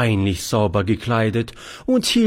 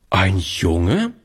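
incredulous echo; 3 semitones lower than usual. Acted. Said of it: "fragte Charlotte".

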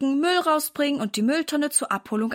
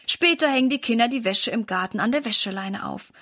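plain reading voice

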